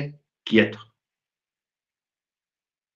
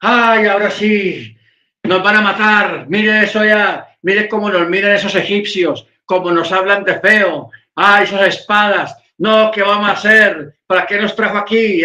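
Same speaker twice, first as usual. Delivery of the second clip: mock wailing crowd, pitched up; clamoring panic; 5 semitones higher than usual. People fearing the Egyptians' swords, mock clamoring. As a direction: act out a frightened people's noisy complaint. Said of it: "el pueblo estaba ahí vociferando".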